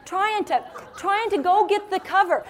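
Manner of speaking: high, loud, straining voice; hammed-up physical struggle; strained effort. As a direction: act out struggling along with stitches. Hurrying out with stitches down here.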